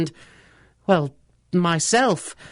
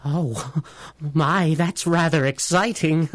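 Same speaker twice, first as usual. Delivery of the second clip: tickled delight. Acted. Doctor delighted by the idea.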